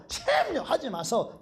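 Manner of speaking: squeaky high laughing plea in Busan dialect; Gyeongsang dialect plea, laughing. Retold or imitated. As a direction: laugh while begging the teacher in Gyeongsang dialect. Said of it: "경상도 말로".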